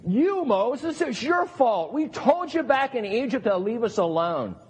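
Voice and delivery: frantic voices blaming Moses; panicked Israelites. Acted. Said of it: "They're like".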